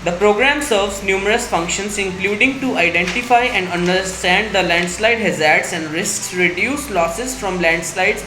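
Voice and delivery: steady, careful exam reading; read-aloud demo. Shown as a demonstration. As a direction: read it clearly at an even pace. Teacher reads model passage aloud.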